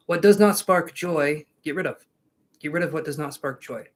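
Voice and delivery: lightly put-on sassy French accent; a hint of a sassy Frenchman, muddled with Australian. Streamer quoting an organizing guru to viewers, in a mock French accent. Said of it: "Was that a sassy Frenchman accent?".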